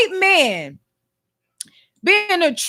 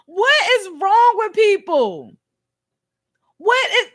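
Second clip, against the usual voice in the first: slow, cry-laughing question; laughing disbelief; 3 semitones higher than usual. Real, not acted. Vlogger reacting to a sixty-year-old quoting rap, cry-laughing.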